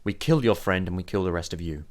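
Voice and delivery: measured, steely warning with pauses; steady, controlled threat; steeled voice. Acted. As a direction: steel yourself and lay down the threat. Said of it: "she sort of steals her voice".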